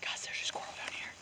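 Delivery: hushed, tense whisper; excited whisper. Real, not acted. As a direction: whisper urgently to the viewers. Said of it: "I'm trying to hunt here".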